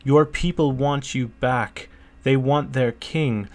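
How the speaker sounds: every word weighted and deliberate; slow, stressed words. A narrator's reading. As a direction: lean on each word, unhurried. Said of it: "his voice slowed and he stressed every word".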